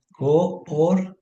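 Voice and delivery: "coordinación" split into slow, separate syllables. Shown as a demonstration. Teacher dividing a word for a student, "coordinación" syllable by syllable. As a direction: break "coordinación" up as co-or-di-na-ción. Entonces queda co.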